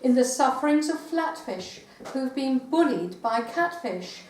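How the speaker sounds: measured verse with punched key words; comic poem reading. Acted. Poet reading comic animal verse to an audience, poem reading. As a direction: read the poem out deliberately, pausing for the laughs.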